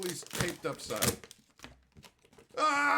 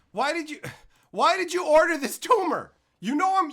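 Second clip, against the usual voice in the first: outraged yell; 6 semitones higher, 9 dB louder than usual. Real, not acted. Outraged at viewer's order.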